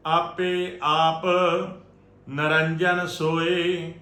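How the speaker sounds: slow, measured sacred chant on a level tone; Gurbani recitation. Shown as a demonstration. Teacher reciting Gurbani for the congregation to learn, measured chanting. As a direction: recite scripture phrase by phrase, drawing out endings.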